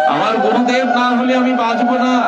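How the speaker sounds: high, anguished cry of devotion; desperate plea. Acted. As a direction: plead as if life depends on it.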